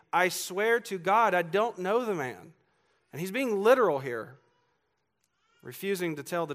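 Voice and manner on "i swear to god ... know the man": slow, insistent sworn denial; swearing an oath. Retold or imitated. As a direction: lean hard on each word as you swear. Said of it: "but he's saying".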